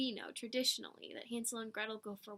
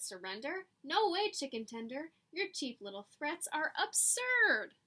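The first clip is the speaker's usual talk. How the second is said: mocking fox; 3 semitones higher, 3 dB louder than usual. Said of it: "Fox said".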